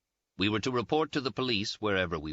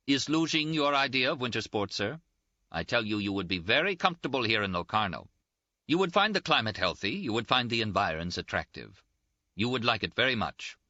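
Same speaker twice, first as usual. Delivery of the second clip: mildly insistent, higher-pitched appeal; lightly voiced official; 4 semitones higher than usual. Official urging traveller to choose Locarno, lightly insistent appeal. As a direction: press your case on the traveller.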